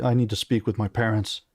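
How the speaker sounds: put-on British-accented storybook prince. Son tells the king and queen his need, British accent. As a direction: read it in a light British accent. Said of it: "on the British accent".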